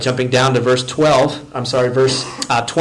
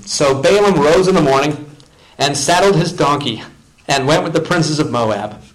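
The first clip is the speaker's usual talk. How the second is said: raised, lively reading of the passage; scripture reading. Acted. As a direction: tell the story from the pulpit. Reads the passage aloud.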